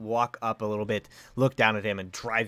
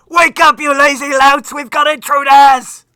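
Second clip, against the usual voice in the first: very high, very loud, shrill alarmed screech; 19 dB louder than usual. Voicing creatures raising an alarm for the players: screaming. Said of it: "you hear them screaming, like".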